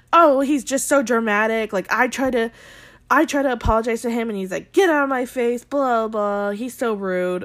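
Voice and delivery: lightly mimicked whiny self-justifier; quick, mildly mocking complaint; Luke P. Host retelling a contestant's excuse to the guys, mock aggrieved.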